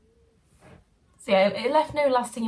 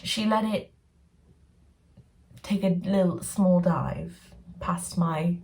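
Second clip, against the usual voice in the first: mock polite; slower than usual. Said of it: "Was that polite?".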